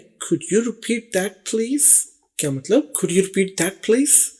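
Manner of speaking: very slow, every word separated; slow model phrase. Shown as a demonstration. Teacher modelling asking a caller to repeat, slowly. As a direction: spell it out slowly for learners. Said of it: "teaching phone phrase".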